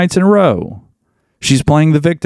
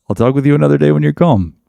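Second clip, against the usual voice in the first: mocking quote; 4 semitones higher, faster than usual. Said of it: "You just blew up".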